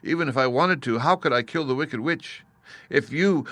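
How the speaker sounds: put-on pleading little girl. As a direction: plead up at the wizard like a frightened child. Dorothy pleads with Oz.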